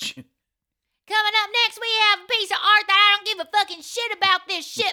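high, loud, fed-up auctioneer. Pretend. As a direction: rattle it off like a sick-of-it auctioneer. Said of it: "she'd actually be a good auctioneer".

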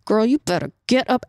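tight-jawed warning, held back from a yell; restrained mom warning through clenched teeth; talking through teeth. Retold or imitated. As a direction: force it out through your teeth. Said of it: "you have to talk through your teeth".

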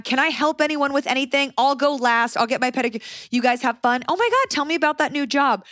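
put-on high, bubbly, over-friendly greeting to the girls; fake-sweet homecoming queen. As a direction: play the sugary popular girl ignoring her rival. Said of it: "You are running for homecoming queen".

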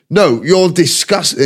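imitated Scottish accent, drawn out; mock a Scot's disapproval. Scottish man telling someone off in a clip, Scottish accent. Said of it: "in his jock accent".

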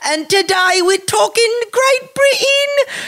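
very high, slow showman announcement; announcer voice. Acted. Host announcing the episode to listeners in high showman voice. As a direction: announce it grandly, stretched out.

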